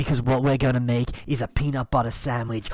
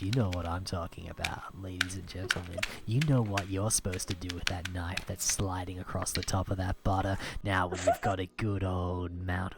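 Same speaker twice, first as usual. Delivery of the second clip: hushed innuendo; 2 semitones lower, 7 dB quieter than usual. Acted. Suggestive hushed talk to viewers.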